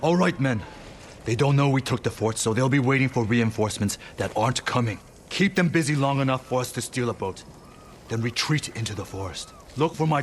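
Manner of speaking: rallying his men. Acted. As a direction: call out orders so the whole group hears.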